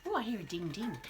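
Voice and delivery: usual speaking voice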